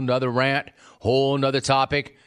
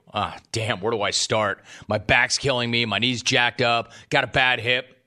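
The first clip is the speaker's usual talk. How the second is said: whiny caller complaint; 3 semitones lower than usual. Retold or imitated. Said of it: "What they don't want is a medical report".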